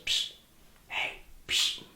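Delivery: hushed unvoiced psst; whisper. Neighbor calling through the cell wall, a whispered psst. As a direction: call softly through the bars without voice.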